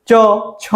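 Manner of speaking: চ, ছ sounded singly with tongue on the palate; palatal consonants. Shown as a demonstration. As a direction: demonstrate চ, then ছ, tongue touching the palate. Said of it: "একদম তালুতে". (চ, ছ আলাদা করে তালুতে জিহ্বা ছুঁয়ে উচ্চারণ)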